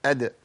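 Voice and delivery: أد with a short bounced final d; أد, still d with a light echo; vowelless dal. Shown as a demonstration. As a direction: release the d of أد briefly and stop, no vowel. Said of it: "الدال الساكنة أقول إيه؟".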